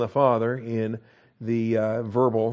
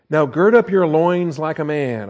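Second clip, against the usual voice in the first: slow, a bit louder, mock stern challenge; sanctified sarcasm; 3 semitones higher, 5 dB louder than usual. God challenging Job, mock stern and slow. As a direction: dare him to stand up like a man. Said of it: "sanctified sarcasm".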